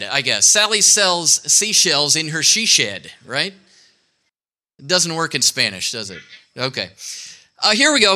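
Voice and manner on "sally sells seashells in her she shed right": slow joke twister. Shown as a demonstration. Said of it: "We should have done she shed".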